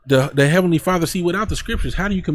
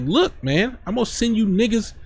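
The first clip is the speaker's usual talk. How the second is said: preacher acting out an angry God; heated God voice; 10 semitones higher than usual. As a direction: scold them as the fed-up Lord. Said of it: "I'm getting a little heated".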